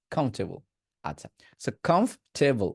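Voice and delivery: British কমফোর্টেবল as "khomf-te-bol"; British pronunciation. Shown as a demonstration. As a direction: say কমফোর্টেবল without its r. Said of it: "British". (British কমফ-টে-বল)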